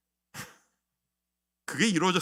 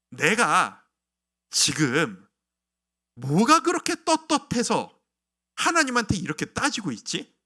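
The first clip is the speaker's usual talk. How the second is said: self-questioning; 5 dB louder, slower than usual. Retold or imitated. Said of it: "라고 하는 생각 말이죠".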